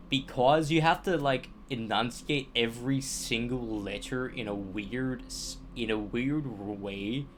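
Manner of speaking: American accent, every letter enunciated; monotone, carefully enunciated American accent; Californian accent. Shown as a demonstration. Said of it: "this is more, like, Californian, like, accent".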